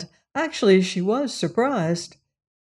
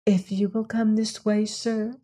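primly; 3 semitones higher, 4 dB quieter than usual. A narrator's reading. Maid Audrey answering the rough visitor, primly. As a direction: keep it proper and cool. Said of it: "said Audrey primly".

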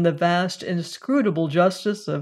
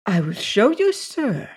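put-on childlike woman; 3 semitones higher than usual. A narrator's reading. Woman offering to show Randolph, childlike voice.

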